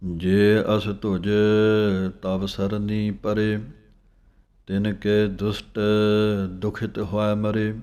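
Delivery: slow, measured chanting of scripture; slow Gurbani recitation. Shown as a demonstration. Teacher reciting the verse slowly for students to follow. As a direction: recite each phrase slowly with pauses.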